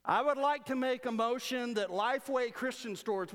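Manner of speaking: a light send-up of a pompous delegate at the mic; mock motion speaker. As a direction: mimic the earnest man at the microphone. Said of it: "this guy stands up".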